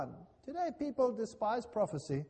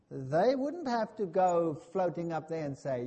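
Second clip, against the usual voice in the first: ordinary talk, nothing marked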